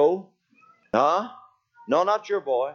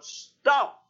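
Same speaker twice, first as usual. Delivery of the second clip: high-pitched mock holler, no real volume; pitched-up retold yell; 9 semitones higher than usual. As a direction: imitate hollering after someone running off. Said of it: "and I hollered".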